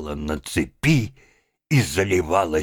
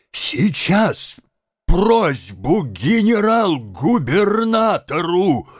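outraged threat; 9 semitones higher, 3 dB louder, much slower than usual. A narrator's reading. Slapped man threatens revenge.

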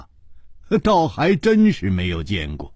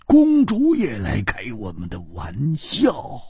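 flustered protest; 5 dB quieter than usual. A narrator's reading. Flustered friend protests the princess's teasing.

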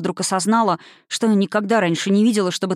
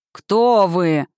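roar; 4 dB louder than usual. Acted. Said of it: "проревело существо".

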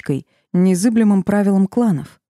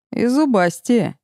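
higher, slow sly giggle; giggling; 6 semitones higher, slower than usual. A narrator's reading. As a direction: giggle the words out. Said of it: "хихикнул третий".

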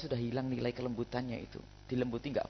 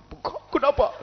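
much higher, loud shocked question; alarmed; 12 semitones higher, 8 dB louder than usual. Acted. Preacher reacting to a bruised wife. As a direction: gasp at the swelling.

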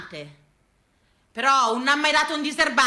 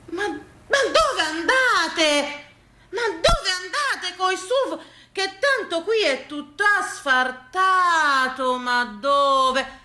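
a lightly voiced old farmer, slow and half-crying; mock-tearful old countryman asking where they're going; grandpa lamenting; 4 semitones higher, much slower than usual. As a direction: plead like a dismayed old grandfather. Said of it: "Eh, nonno!".

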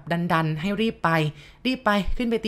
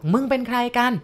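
narrated angry call; 6 semitones higher than usual. A narrator's reading. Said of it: "พ่อทิวก็ยังคงส่งเสียงดังบอก".

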